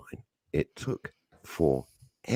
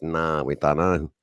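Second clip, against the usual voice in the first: bored call-centre woman; slower than usual. Retold or imitated. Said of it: "This is how she spoke".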